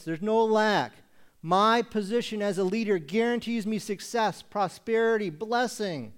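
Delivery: puffed-up leader proclaiming entitlement; boastful leader. Acted. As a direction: brag like a self-satisfied leader. Acts a boastful prosperity-minded leader.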